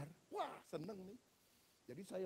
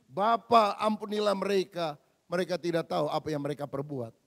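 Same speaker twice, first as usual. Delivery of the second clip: lightly voiced Jesus praying; 7 dB louder than usual. Jesus's prayer quoted in sermon.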